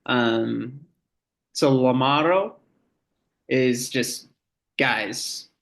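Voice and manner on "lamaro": lamaro with a thick, tongue-forward L; different L sound. Shown as a demonstration. Teacher showing the other Marshallese L, lamaro with tongue-forward L. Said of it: "Here's a little bit of a different sound".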